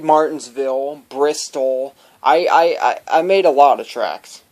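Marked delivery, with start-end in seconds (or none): 2.2-4.4 stuck repeating the word I; stammering start, then carries on; stuttering. Real, not acted. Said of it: "but sorry for my stuttering".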